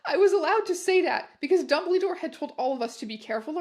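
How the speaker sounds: real laughter breaking through the reading; laughing. Real, not acted. Reader losing it at the absurd line, laughing. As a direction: read on while cracking up. Reader cracking up mid-story.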